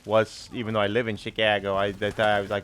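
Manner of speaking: put-on thick Chicago Bears fan accent. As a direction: hold the Chicago superfan voice. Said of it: "Funny thing about this accent is".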